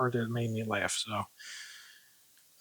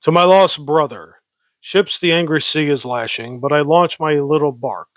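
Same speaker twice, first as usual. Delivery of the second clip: composed, firm poem recitation; earnest declaimed verse; more serious reading; 3 dB louder than usual. Shown as a demonstration. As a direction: read the verse seriously, without cracking up. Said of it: "read this a little more seriously".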